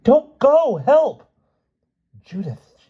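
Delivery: loud, high desperate screams; high-pitched panicked cries; screaming for help. A narrator's reading. Lynn screaming as Stevie is taken.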